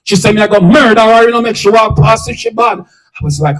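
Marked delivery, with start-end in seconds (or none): 0.3-2.8 louder, heated burst imitating her anger; mad talk. Distraught woman threatening the helper to her confidant, angrily. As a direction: act her out talking like she's mad. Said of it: "she start talk like she mad".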